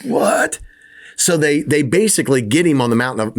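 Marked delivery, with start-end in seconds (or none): 0.0-0.6 sharp high-pitched mock disbelief; a startled yelp of disbelief; incredulous what. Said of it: "The disciples are like".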